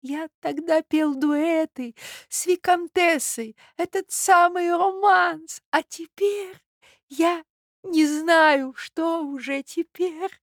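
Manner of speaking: put-on high, slow, choked-up old man; a doddering prince gasping through tears; high, slow trembling old man's voice; old prince, choking up. A narrator's reading. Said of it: "задыхаясь и захлёбываясь".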